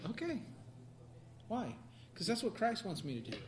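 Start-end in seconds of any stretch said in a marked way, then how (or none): 0.1-0.4 smiling okay. Shown as a demonstration. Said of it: "smile and say".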